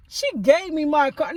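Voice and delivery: very high, incredulous retort; shocked, can't believe what he's saying; squeaky outraged denial; indignant disbelief. Retold or imitated. Retorting to the manager, rising.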